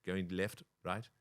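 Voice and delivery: lightly put-on South African accent; South African speech with a tag question. Comic mimics people met on a cruise, South African accent. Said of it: "you're saying about South African accent".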